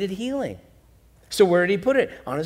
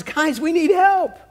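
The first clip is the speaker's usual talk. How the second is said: high, loud, slow call to the other boat; calling for help; 11 semitones higher, 8 dB louder, slower than usual. Acted. Fisherman calling his partners across the lake for help, loud and urgent. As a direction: shout across the water to partners.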